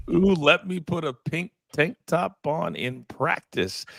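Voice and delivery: slow, drawn-out mock of a pampered quarterback; mocking prissy quarterback. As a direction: tease the quarterback with a lazy sing-song. Host echoes the mocking quote.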